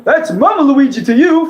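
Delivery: Luigi impression. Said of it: "I can do".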